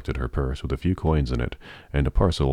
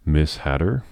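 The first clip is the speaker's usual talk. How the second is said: lilting yet authoritative lady; musical but commanding; 2 semitones higher than usual. Acted. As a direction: sing it out, but give an order. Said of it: "in a musical but commanding voice".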